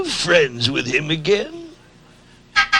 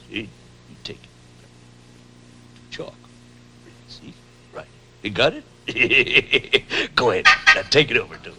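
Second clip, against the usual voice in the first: hushed conspiratorial whisper, much softer; 9 semitones lower, 6 dB quieter, much faster than usual. Real, not acted. Plotting a prank with the clown, whispering. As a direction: whisper the plan like a secret. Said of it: "Now, whisper".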